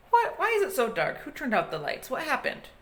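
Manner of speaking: startled jellyfish in a shadow; scared cries. Acted. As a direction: panic in the sudden dark.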